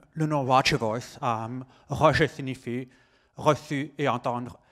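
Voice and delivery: slow, carefully articulated American accent; slow, deliberate, over-articulated delivery; slow articulation. Real, not acted. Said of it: "Je vais articuler un peu lentement".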